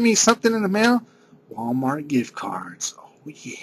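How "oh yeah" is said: soft sly whisper; secretive whispered oh yeah. Real, not acted. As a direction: breathe it as a cheeky aside.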